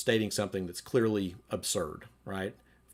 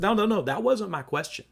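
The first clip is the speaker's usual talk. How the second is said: contemptuous husband; 5 semitones higher, 4 dB louder than usual. Retold or imitated. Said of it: "He said".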